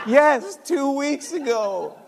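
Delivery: loud, high, drawn-out confirmation; emphatic confirmation. Retold or imitated. Son confirms the delay to dad, loud emphatic admission. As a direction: answer firmly, stretching the time words. Son's answer to shocked dad.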